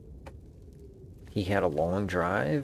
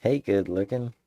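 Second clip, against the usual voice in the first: cheesy greeting; 2 semitones higher, 4 dB louder than usual. Pretend. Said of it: "I like that".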